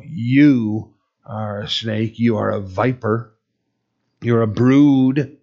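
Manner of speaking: mildly stern, deliberate prophet addressing the proud; stern rebuke. Acted. John to prestigious robed people, a measured stern rebuke. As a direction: lean firmly on the accusations, easing off toward the end. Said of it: "he's literally very sternly saying".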